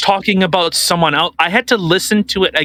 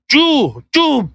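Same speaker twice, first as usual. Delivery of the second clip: tentative mock German accent, higher pitched; higher, half-hearted German imitation; attempted German accent; 8 semitones higher than usual. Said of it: "what do Germans sound like?".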